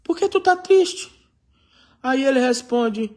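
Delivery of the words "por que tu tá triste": high, pointed question from the king; king voice, much higher; the king asking. Acted. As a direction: ask it like a startled king. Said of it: "Aí o rei perguntou".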